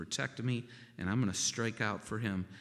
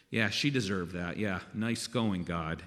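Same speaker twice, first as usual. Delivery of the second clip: mock sarcasm; 3 semitones lower, 3 dB louder than usual. Voicing a cynic's sarcasm.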